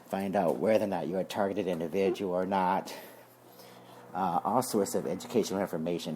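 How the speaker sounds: breathless from wiping the car; out of breath. Real, not acted. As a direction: talk while catching your breath. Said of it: "If I sound like I'm out of breath".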